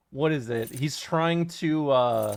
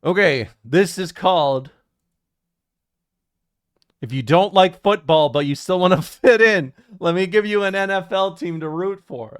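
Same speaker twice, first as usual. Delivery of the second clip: announcer voice; 2 semitones higher, 6 dB louder than usual. Acted. Announcing quiz title loudly.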